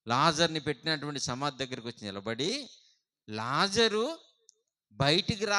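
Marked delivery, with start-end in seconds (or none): 3.3-5.6 mild loud call. Shown as a demonstration. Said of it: "బిగ్గరగా పిలిచాడంట".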